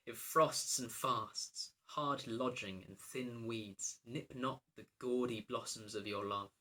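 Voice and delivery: very slow, measured verse delivery; verse recitation. Acted. Princess testing the king's love, slow recitation. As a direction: weigh each hardship, drawing the words out.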